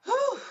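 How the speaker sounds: a shaky, tearful exhale; shaky sigh. Real, not acted. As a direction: blow out a trembling breath to stay composed. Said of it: "I'm trying not to cry".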